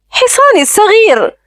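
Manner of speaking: put-on high-pitched delighted child voice; little girl. A narrator's reading. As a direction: pipe up like a little girl with a new toy. Delighted child gets a toy horse. (صوت طفلة فرحة بنبرة عالية)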